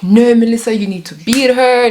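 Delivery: high-pitched peer-pressure goading; insistent urging. Retold or imitated. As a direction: press a friend to fight, acted out. Classmates pressing her to fight.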